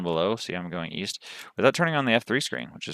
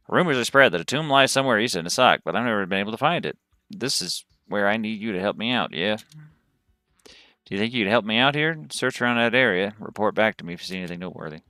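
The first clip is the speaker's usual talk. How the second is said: lightly voiced Texas cowboy; Southern cowboy storyteller; cowboy accent. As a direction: read it as a cowboy recounting a search. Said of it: "that accent came to me".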